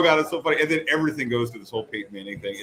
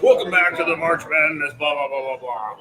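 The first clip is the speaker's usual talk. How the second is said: sportscaster voice; 4 dB louder than usual. Retold or imitated. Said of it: "he's like".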